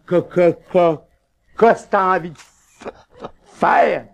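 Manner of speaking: stammering patient repeating quoi; stuttering. Acted. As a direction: stumble on the first sound. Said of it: "et puis bégayant".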